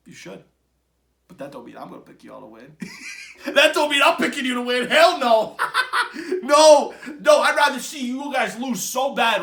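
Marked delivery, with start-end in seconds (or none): 2.8-3.4 sudden squeaky laugh; high mocking laugh. Real, not acted. Mocking Chiefs fans. 3.5-5.6 louder, words broken by laughter; laughing while talking. Real, not acted. Mocking Chiefs fans. 5.6-6.4 quick laugh between words; short mocking laugh. Real, not acted. Mocking Chiefs fans. 6.4-9.4 loud and higher, half laughing; laughing shout. Real, not acted. Mocking Chiefs fans.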